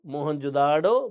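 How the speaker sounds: drawn-out मोहनजोदाड़ो, "daado"; Mohenjo-daro variant. Shown as a demonstration. Teacher repeats another variant slowly for the class. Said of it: "अलग-अलग उच्चारण होता है".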